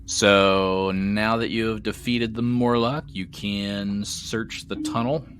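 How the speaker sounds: slow, measured scene setting; game master narration. Acted. Game master to players after the Morlock's defeat, measured narration. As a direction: lay out the next step slowly for the players.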